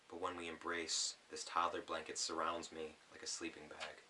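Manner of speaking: gentle spoken-word reading; poem reading. Acted. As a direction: read it like a poem to an audience. Reads his poem aloud.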